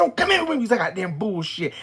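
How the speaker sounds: angry high yell, loudest at the start; screaming. Retold or imitated. Woman fed up with her ex's accusations, screaming. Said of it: "screaming at you and scaring you".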